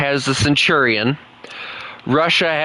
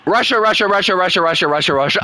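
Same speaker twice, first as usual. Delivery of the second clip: amused listing; 7 semitones higher, faster than usual. Real, not acted. Reading long repetitive list.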